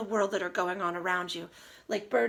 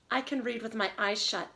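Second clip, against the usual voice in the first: put-on reading to children. Teacher reads title aloud.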